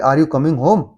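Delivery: "are you coming home" rising on home. Shown as a demonstration. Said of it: "उसमें अपर tone आ रही है". (उठती tone)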